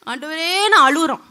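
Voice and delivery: loud wailing plea; mock wailing. Preacher mimicking believers wailing to God, loud mock cry. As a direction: cry out to the Lord, hammed-up.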